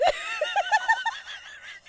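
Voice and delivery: squealing laughter; high shrieking laugh. Real, not acted. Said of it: "I don't know why that's so funny".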